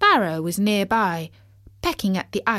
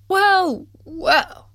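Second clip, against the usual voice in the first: much higher, louder frog; a chirpy little frog; 11 semitones higher, 5 dB louder than usual. Acted. Bertie frog voice.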